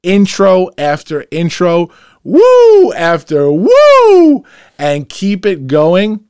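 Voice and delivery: high, loud hype sign-off; loud excited outro. Acted. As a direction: pump up the audience to close out. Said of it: "I'm gonna get loud like I always do at the end of a show".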